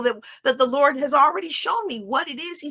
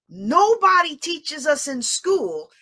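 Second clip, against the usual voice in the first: raised, slow, emphatic voice; near yelling; 3 semitones higher, much slower than usual. Real, not acted. Speaker stressing a failing of schools to her audience, near yelling. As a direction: stretch it out, a little too forcefully. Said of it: "I'm yelling".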